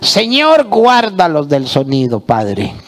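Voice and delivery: mock prayer. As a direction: pray over them with fake fervor. Mock prayer at church comedy show.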